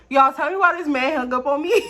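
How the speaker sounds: telling viewers through real laughter; laughing disbelief. Real, not acted. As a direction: laugh at how absurd it was. Laughing at being hung up on.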